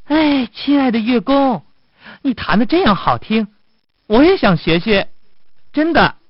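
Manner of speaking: high-pitched little rabbit voice; eager rabbit. Acted. Rabbit asks musician to teach it, eager rabbit voice. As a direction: pipe up high like a keen rabbit. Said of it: "兔子说".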